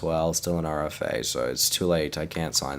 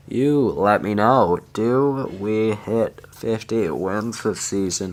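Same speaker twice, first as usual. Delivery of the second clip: excited hype; 4 semitones higher, 5 dB louder, slower than usual. Real, not acted. Excited address to viewers.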